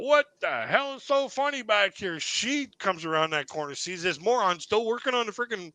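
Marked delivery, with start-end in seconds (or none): 0.0-2.2 mock angry manager. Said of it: "She comes out".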